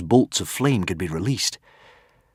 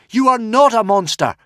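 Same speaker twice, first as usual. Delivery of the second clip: higher, louder anguished cry; cried out; 14 semitones higher, 6 dB louder than usual. Acted. Hiccup to the dragon, crying out. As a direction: cry it out to him. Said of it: "cried Hiccup".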